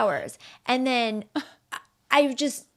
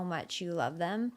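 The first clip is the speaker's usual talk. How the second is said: holding back tears; 4 semitones lower, 8 dB quieter, slower than usual. Real, not acted. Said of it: "sorry, I'm not gonna cry".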